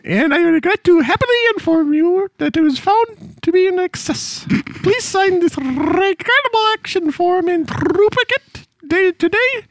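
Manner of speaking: lightly voiced stuffy lady official reading a notice; mock official lady. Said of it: "I've turned into a woman at this point".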